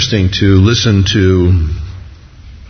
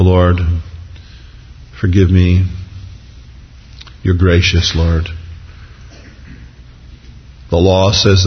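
slightly lowered, measured plea with long pauses; penitent prayer; 2 semitones lower than usual. Acted. David owning his sin before the Lord, penitent prayer.

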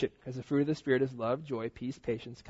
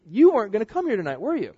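calling out; 7 semitones higher, 7 dB louder than usual. Retold or imitated. Pastor calls out.

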